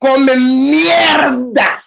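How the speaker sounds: very slow, drawn-out Spanish curse; mock kitchen curse. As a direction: imitate the cooks, stretching every syllable. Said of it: "They be hitting that shit so hard".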